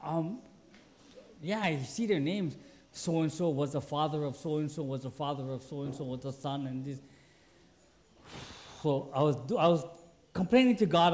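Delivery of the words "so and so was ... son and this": low, quiet monotone drone; bored genealogy reading. Retold or imitated. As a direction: drone through the list, trailing softer. Mimics reading tedious genealogy.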